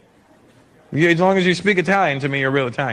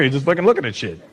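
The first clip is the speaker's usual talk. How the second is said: ordinary talk, nothing marked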